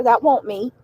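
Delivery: lightly voiced Southern "That won't me" with "won't" for wasn't; Southern accent. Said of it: "making fun of people with Southern accents".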